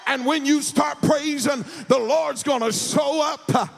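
full-force preaching. Acted. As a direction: rouse the church to praise. Preacher sings the story over music.

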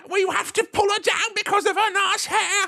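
high, giggling catty voice; laughing mock gossip. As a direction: giggle through a catty jibe. Joining mock co-worker voice, laughing.

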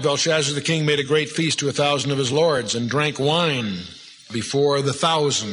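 measured, solemn Bible reading; scripture reading. Acted. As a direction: pulpit reading of a Bible passage. Reads scripture aloud.

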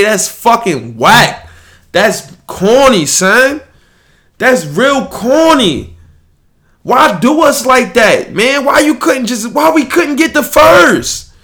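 high, anguished fan complaint; really upset, wailing at the unfairness; outraged protest. Real, not acted. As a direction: build from annoyed to a high, pleading shout. Fan protesting lottery result.

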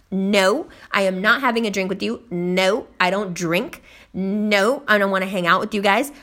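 firm, matter-of-fact shutdown; retold firm refusal. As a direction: shut him down point by point. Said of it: "I shut him down right there".

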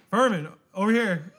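half-hearted imitation of yelling to a coworker; retold sleep-yelling. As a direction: call it out slowly, without a full shout. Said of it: "you were yelling at somebody".

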